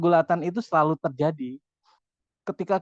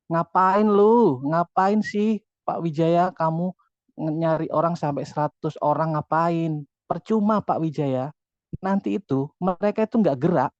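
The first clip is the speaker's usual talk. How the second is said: negative inner voice; slower than usual. Retold or imitated. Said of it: "alam bawah sadar akan ngomong gini".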